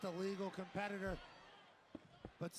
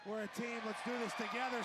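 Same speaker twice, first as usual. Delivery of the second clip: mock team cheer; 3 dB louder than usual. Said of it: "says Io and Rhea".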